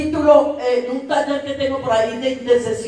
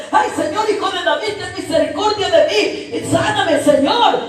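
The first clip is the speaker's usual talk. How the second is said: high, pleading blind man's cry; 7 semitones higher than usual. Acted. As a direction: beg for mercy in a raised pitch. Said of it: "tuvo una palabra de clamor". (clamor suplicante con voz aguda)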